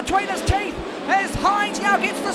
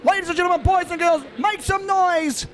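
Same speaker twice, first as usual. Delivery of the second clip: dueling hype announcers. Acted. Announcer hyping crowd after win.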